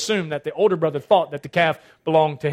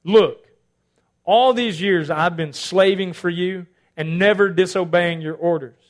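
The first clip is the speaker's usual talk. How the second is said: haughty; slower than usual. Retold or imitated. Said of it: "You get a little haughty with dad here".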